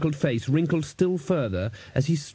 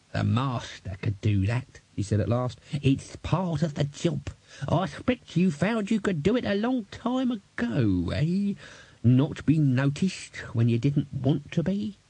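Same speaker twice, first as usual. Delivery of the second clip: put-on high old codger, half to himself; musing old man; 3 semitones higher than usual. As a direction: explain it slowly to the girl.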